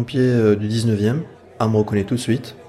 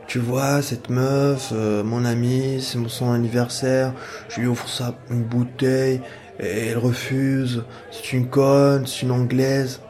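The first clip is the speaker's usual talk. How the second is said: lightly voiced drunk man, pitched up, mild mock shout; drunk guy yelling; 3 semitones higher, slower than usual. Drunk stranger with champagne ranting in his ear, mild mock yell. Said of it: "qui hurle dans mes oreilles".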